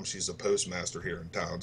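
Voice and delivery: ordinary talk, nothing marked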